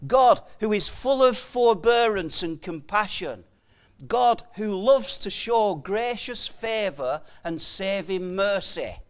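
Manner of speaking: ringing emphasis, punching each "God"; full-force preaching. Real, not acted. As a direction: proclaim it loudly from the pulpit.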